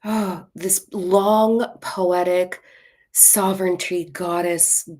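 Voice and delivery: drawn-out, airy goddess parody; mock-poetic. Tired of spiritual clichés, mockingly poetic. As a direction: stretch it slowly like overblown spiritual poetry. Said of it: "is always like, ... long poetic".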